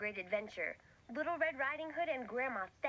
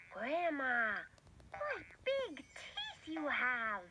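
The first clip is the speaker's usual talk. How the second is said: put-on little girl voice; much slower than usual. Girl speaks to wolf.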